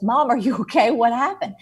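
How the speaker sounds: surprised and half laughing; alarmed. Retold or imitated. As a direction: daughter startled at the wrecked bathroom. Finding mom in wrecked bathroom.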